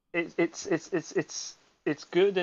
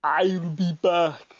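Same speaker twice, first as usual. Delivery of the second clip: Schwarzenegger impression. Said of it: "do an Arnold Schwarzenegger impression".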